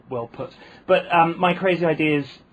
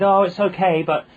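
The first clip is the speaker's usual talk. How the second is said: Essex sister-in-law; 2 semitones higher than usual. Retold or imitated. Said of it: "And she said".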